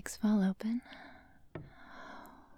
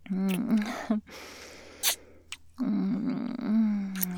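seductive; 3 dB louder than usual. Acted. Sensual roleplay, humming moans.

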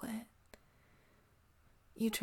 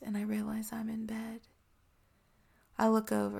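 ASMR whisper. Acted. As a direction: breathe every word close to the mic.

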